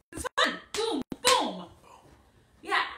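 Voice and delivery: excited cheer. Real, not acted. Child shouts after the song.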